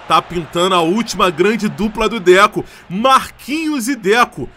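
loud hyped shout; excited shout. Real, not acted. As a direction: shout it with hype. Hyped shout over new duo.

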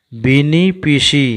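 বিনি and পিসি read straight through without spelling; whole-word reading. Shown as a demonstration. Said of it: "বর্ণগুলো আমার জানা আছে বলে আমি তাড়াতাড়ি পড়তে পারছি". (বানান ছাড়া পড়া)

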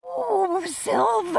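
high delighted "silver!"; thrilled shout of discovery; excited cry. Real, not acted. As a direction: call out the find with glee. Finding silver while detecting.

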